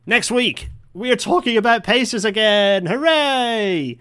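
high, loud cheery announcer voice; excited announcement. Acted. Host teasing next week's episode to listeners, high and loud. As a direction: ham up the big news with a cheer.

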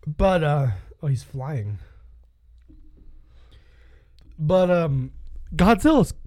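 hiccuping while talking; hiccups. Real, not acted. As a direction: talk through the hiccups. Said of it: "so I have hiccups right now".

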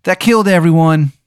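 high, very slow, moaning falsetto; dying Steve. Acted. GM voicing Steve revealing the virus, high slow moan. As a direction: drag out the squeaky reveal. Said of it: "And he goes".

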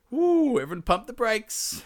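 high, loud hooted call to stop; urgent peacemaking. Acted. Gernot halts the fight over the sword, urgent calling out. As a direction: hoot over the quarrel, pitch way up.

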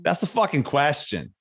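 playful Boston take on Shakespeare; Boston accent. Shown as a demonstration. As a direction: answer like an amused Bostonian. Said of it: "line from Shakespeare with a Boston accent".

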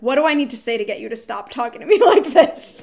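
laughing exasperation. Retold or imitated. Retells exasperated plea, laughing.

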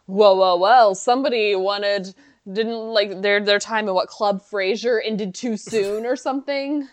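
Frasier voice. Retold or imitated. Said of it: "And so Frasier is like".

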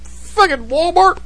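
lightly voiced devil, high and slow; imitated devil voice. Host describing her doing it in Walmart, mock devil voice. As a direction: draw it out high, mocking her voice. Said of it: "She do that voice, but just loud".

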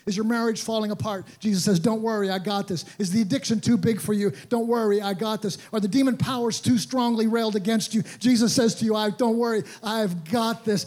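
rising sermon climb, pressing the crowd; preaching at full force. Acted. Preaching altar call crescendo.

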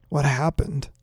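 softly mumbled, words thick in the mouth; lightly slurred, muffled question; mush mouth. A narrator's reading. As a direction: talk as if through peanut butter. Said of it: "sounded like I was fighting against a mouthful of peanut butter".

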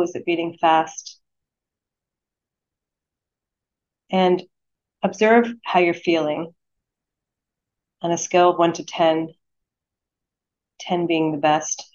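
unhurried meditation guide, long pauses between phrases; guided meditation. Acted. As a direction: lead them gently into stillness, phrase by phrase.

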